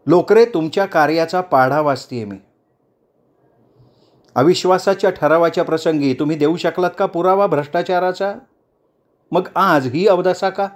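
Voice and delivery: a hint of a leader scolding a councillor; stern rebuke. Chandrakala rebukes Lokre.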